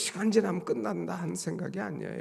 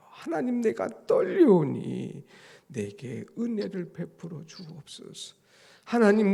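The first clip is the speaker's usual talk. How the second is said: pleading for grace; 5 semitones higher, 5 dB louder than usual. Retold or imitated. Preacher voices David begging God for grace, rising then fading. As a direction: beg for grace, swelling then falling away. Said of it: "하나님 앞에 은혜로 나가는 거예요".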